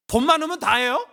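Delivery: high, loud rhetorical question; indignant challenge. Acted. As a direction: demand it as if outraged. Acted challenge, piling up questions.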